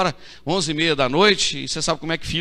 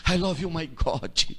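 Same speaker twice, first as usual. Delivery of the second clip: mock pious English worship; 3 dB quieter, slower than usual. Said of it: "que ele levanta a mão e diz".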